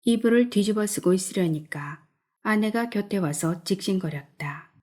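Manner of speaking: plain reading voice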